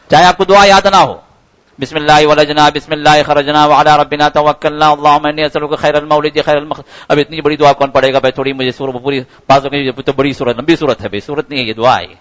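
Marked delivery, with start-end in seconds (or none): 1.8-6.8 prayer recital. Shown as a demonstration. Rattles off the long forgotten prayer. 7.1-12.1 reluctant grumble. Acted. Acts out someone balking at long prayer.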